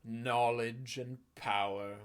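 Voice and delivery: slow, scornful villain voice; dismissive villain. Acted. Villain scoffing at the index, slow and scornful. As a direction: brush off the index with contempt.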